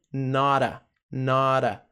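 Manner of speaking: "nora" as one word, the T a quick tap; linked pronunciation. Shown as a demonstration. Teacher shows how not a becomes nora, linked pronunciation. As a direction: run not and a together into "nora". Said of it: "uma conexão interessante de pronúncia".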